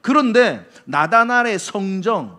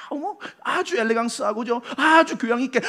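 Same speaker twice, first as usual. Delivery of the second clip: higher-pitched affected elegance; mock refined; 5 semitones higher than usual. Preacher mimicking outwardly polished people, mock refined. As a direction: put on airs of refinement, lightly. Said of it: "아주 세련되게".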